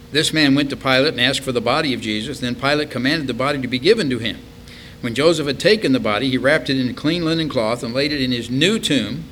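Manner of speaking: projected Bible verse, rising in pitch; scripture reading. Acted. Preacher reading of Joseph of Arimathea, declaimed. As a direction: read the verse out clearly and firmly.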